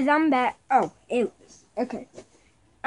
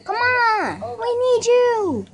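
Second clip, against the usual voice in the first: urgent; 8 semitones higher, 3 dB louder, slower than usual. Real, not acted. Urging teammates in game.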